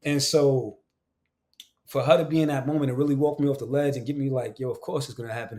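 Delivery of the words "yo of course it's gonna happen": quiet reassurance. Retold or imitated. Wife walking him off the ledge, quiet reassurance. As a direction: softly imitate a partner's reassurance. Retelling wife's reassurance again.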